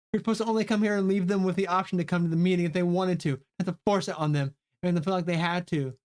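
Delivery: fast, lightly voiced defence; defensive character. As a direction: rattle off the excuse. Voices Chrissy defending herself.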